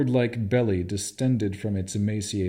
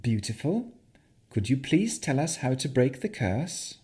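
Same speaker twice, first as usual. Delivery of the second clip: calm; 4 semitones higher than usual. Acted. Navara to the hag, calm softened plea. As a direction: coax it gently and evenly. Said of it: "then said calmly".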